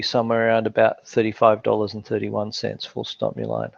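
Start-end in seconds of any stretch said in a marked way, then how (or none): 2.8-3.7 dropped low for the dictation command; dictating. Acted.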